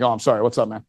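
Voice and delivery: quiet, acted apology to a kid; apologetic softening. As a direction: back off gently, voice dropped. Backing down on seeing a kid.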